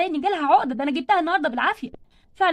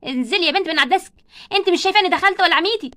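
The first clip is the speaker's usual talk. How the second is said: sharp scolding, louder; teacher catching a pupil on the desk, scolding loudly; stern teacher; 4 dB louder than usual. Acted. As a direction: bark at the girl to get down.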